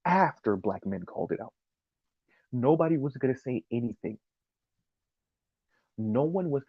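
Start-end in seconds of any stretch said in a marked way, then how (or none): 0.0-1.5 "after" picked out as the key word; emphatic repeat. Real, not acted. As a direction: stress on "after" at the start of the phrase. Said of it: "once again, let me say that one more time".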